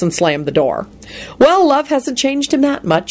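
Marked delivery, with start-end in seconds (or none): 1.4-3.1 sour. A narrator's reading. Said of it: "she thought sourly".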